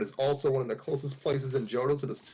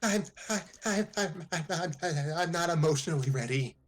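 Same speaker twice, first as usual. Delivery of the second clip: flustered stammer; 4 semitones higher than usual. Acted.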